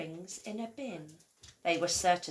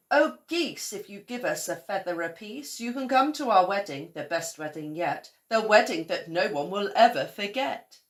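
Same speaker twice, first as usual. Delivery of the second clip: calling to the geese; 3 semitones higher, 6 dB louder than usual. A narrator's reading. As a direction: sing out the invitation to the geese. Scarecrow addressing geese.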